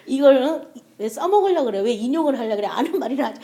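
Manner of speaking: mock irritated rant at her husband's notes; half-playful exasperated scolding; imitating her own anger. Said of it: "어떤 때 막 화가 나는 거야".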